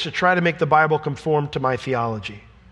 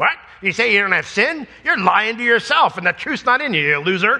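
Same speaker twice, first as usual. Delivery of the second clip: angry, scornful, contemptuous, pitched up; 6 semitones higher than usual. Acting out the tone he doesn't want us to hear: mock-angry, scornful tone. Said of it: "with an angry voice and an angry face ... Like that, he doesn't want us to hear that tone".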